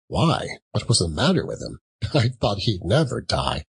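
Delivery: chuckling through the words; amused, laughing businessman. Acted.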